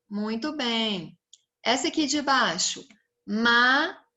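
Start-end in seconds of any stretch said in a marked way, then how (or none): 3.3-4.0 Macaco split into Ma - ca - co; three spaced-out beats on Macaco; syllable by syllable. Shown as a demonstration. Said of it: "Três sílabas".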